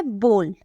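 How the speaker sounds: बोल with a long pure "o"; corrected pronunciation. Shown as a demonstration. Teacher giving learners the pronunciation, careful long vowel. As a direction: say बोल as "bole", one steady vowel. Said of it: "इसका जो pronunciation होता है".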